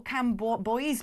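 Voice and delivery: put-on Cambois drawn out as cam-bo-boys; as-spelt guess. Shown as a demonstration. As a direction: say Cambois slowly, ending like boys. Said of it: "pronounced Camus".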